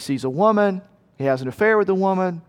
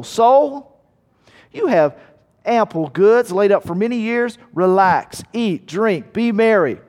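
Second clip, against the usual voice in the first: self-satisfied boast; 4 semitones higher, 3 dB louder than usual. Acted. Rich fool addresses his soul.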